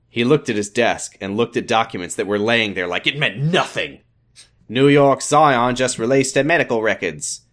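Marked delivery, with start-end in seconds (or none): 4.7-7.4 put-on Australian doctor; Australian accent. Doctor explains the released medical records, Australian accent. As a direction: keep an attempted Australian accent. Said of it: "an Australian accent".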